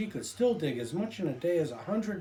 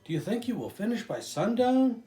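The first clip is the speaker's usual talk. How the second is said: put-on little boy voice; 7 semitones higher, 3 dB louder than usual. A narrator's reading. Little boy asks Mike.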